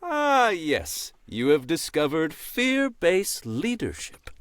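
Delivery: a dry, knowing crow voice; wise crow voice. Acted. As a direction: play a smug old crow. Crow character.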